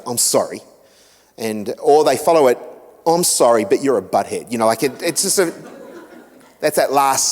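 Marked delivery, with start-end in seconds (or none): 0.1-0.6 a lightly voiced forced "I'm sorry"; forced apology. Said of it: "someone's forcing you to say". 3.1-4.5 apology with a barb. Retold or imitated. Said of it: "That's that little barb at the end".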